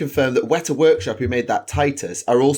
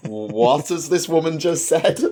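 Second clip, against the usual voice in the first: slow, raised, incredulous mock-student question; baffled pupils; 4 semitones higher, slower than usual. Pupils react to teacher's sudden French, baffled. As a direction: imitate a bewildered class, drawn out and higher. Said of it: "They're like".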